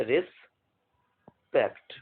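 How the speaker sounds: slow, drawn-out word; slow dictation. Shown as a demonstration. Teacher dictating respect to students, slowly. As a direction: stretch it for writing. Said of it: "simply आप समझ जाएंगे".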